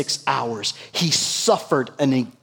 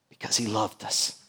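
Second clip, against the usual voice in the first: tender; 5 semitones lower, 10 dB quieter than usual. Real, not acted. Tender emphasis on Jesus' love.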